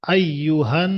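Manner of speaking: আইয়ুহান with the ন held nasal; nasal ghunna. Shown as a demonstration. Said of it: "গুণনা করা ওয়াজিব".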